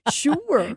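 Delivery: "Sure" stretched into two syllables, shoo-wer; playful high two-syllable "Sure"; drawn-out sure. Shown as a demonstration. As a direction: drag "Sure" out Aussie style. Mocking the drawn-out Australian sure.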